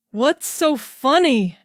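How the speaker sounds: lightly voiced Wallis, wondering; puzzled Wallis. A narrator's reading. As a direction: ask it like a puzzled young woman.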